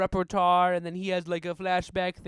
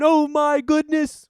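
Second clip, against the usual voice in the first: shocked; 5 semitones higher, 7 dB louder, slower than usual. Real, not acted. Shocked exclamation.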